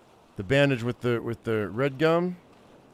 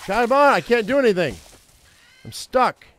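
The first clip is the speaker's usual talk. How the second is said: exasperated outcry; 10 semitones higher, 8 dB louder than usual. Real, not acted. Stuck in game, exasperated.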